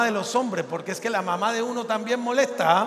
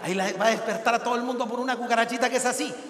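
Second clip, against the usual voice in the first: macho husband; 6 dB quieter, faster than usual. Retold or imitated. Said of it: "un varón diciendo".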